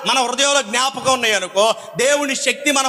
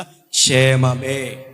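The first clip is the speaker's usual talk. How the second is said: calm reply; 12 semitones lower, much slower than usual. Retold or imitated. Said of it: "ఆమె ఎదురైనప్పుడు ఏం చెప్పిందో తెలుసా?".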